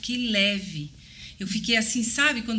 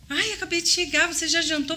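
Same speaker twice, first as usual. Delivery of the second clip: husband's voice, mocking; 7 semitones higher than usual. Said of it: "Aí ele".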